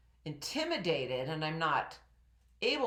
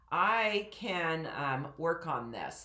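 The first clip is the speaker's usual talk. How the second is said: slower, grounded diaphragm delivery; speaking from diaphragm; slower than usual. Shown as a demonstration. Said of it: "that's speaking from my diaphragm more".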